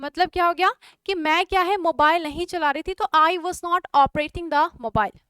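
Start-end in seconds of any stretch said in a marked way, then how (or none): 3.0-5.1 बहुत धीमे, हर शब्द साफ़; बोर्ड पर लिखवाते हुए धीरे; slow dictation. Shown as a demonstration. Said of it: "teacher repeats slowly". (धीमा श्रुतलेख)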